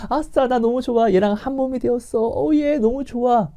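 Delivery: high, gleeful cheer; gleeful high-pitched newlywed joy; giddy newlywed. Acted. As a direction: squeal with delight at getting married. Acted newlywed glee.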